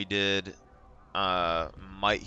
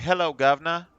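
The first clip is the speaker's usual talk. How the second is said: put-on higher, louder British-accented hello governor; mock British accent; 6 semitones higher, 6 dB louder than usual. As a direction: ham up a cockney British greeting. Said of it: "like, the British accent".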